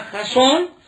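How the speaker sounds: "Jasón" accented on the O; stress on final syllable. Shown as a demonstration. Pastor showing the accent in a Bible name, "Jasón" stressed on the O. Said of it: "porque hay un acento ahí en la O".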